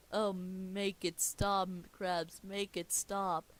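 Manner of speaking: slow, drawn-out mild wail; half-hearted agonised plea to make it end; pained pleading. Acted. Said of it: "Plankton screams in pain".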